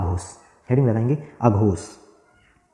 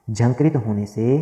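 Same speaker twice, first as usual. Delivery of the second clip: slow, "झंकृत" drawn out for writing down; slow dictation; slower than usual. Shown as a demonstration. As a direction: dictate it word by word, slowly. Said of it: "हम लिख देंगे यहाँ पे". (धीरे-धीरे "झंकृत होने से" लिखवाना)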